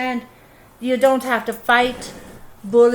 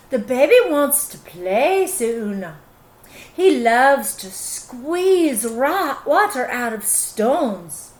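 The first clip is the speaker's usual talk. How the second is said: sweetly sly mother. Acted.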